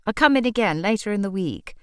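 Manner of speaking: a touch of impatience, the oh pitched high; impatient. Acted. Customer giving up on the shopkeeper, mildly impatient. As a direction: huff it off. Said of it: "exclamation of impatience".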